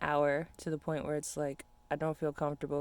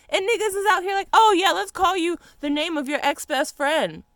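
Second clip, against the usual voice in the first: loud, much higher, exasperated yelling; furious shout; 12 semitones higher, 10 dB louder than usual. Real, not acted. Ranting at friends who shorten her name, furious shout. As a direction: yell it, fed up with being renamed.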